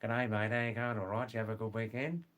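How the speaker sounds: rapid, pure broad Aussie patter; broad Australian English. Shown as a demonstration. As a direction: lay on a broad Australian accent. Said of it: "pure, broad, rapid Australian English".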